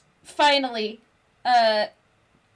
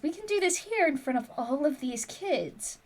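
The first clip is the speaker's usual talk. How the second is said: gently; 6 dB quieter than usual. Acted. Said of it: "gently says".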